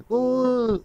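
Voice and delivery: long, high wail of pain; acted high-pitched howl of pain; pained cry. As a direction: cry out "ooh" as if pricked. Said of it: "दर्द से चिल्ला रही थी".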